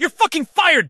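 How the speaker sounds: angry firing. Acted. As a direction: throw the words at him. Boss fires Paul.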